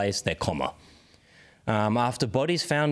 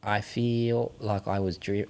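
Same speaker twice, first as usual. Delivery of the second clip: slow, low New Zealand attempt sliding toward South African; failed New Zealand accent, drawn out and low; attempted Kiwi accent; 4 semitones lower, slower than usual. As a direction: feel your way slowly into Kiwi. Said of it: "It's like South African accent".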